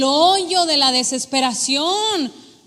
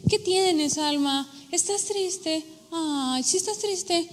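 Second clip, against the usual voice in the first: put-on soft and gentle, as if to a sad child; tender questioning; 3 semitones higher, 4 dB quieter, slower than usual. David asking his sad soul softly and tenderly.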